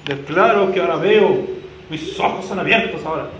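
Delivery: loud declaring in a mock Mexican accent; half-Mexican accent. Preacher parodying the blind man's declaration to Jesus, mock Mexican accent. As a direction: proclaim it with a put-on Mexican lilt. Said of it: "Medio mexicano".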